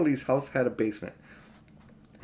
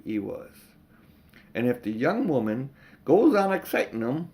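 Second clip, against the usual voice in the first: put-on slower cockney accent; 2 semitones higher than usual. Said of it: "we're gonna do that slower".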